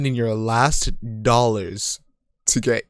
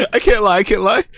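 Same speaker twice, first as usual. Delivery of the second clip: high laughing admission; giggling confession; 7 semitones higher, 5 dB louder, faster than usual. Real, not acted.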